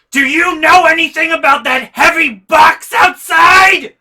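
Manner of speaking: high, loud shrieking mom impression; mock-shriek it like an angry mom; imitating mom's shout. Angry mom shouts at son about the box.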